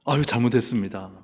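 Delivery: mock repentance. King admitting his sin to the priest, hammed-up penitent plea. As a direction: pretend to beg forgiveness, rising in pitch. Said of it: "즉각 회개하고 잘못을 인정하시겠습니까".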